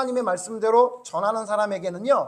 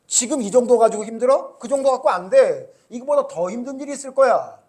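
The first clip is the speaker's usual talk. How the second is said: stern rebuke; 3 semitones higher, 5 dB louder than usual. Acted. God's stern rebuke voiced.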